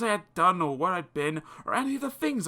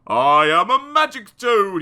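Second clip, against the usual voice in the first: loud, boastful toad; proud magic toad cry; 6 semitones higher, 9 dB louder than usual. Acted. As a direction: announce it grandly. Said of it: "he cried".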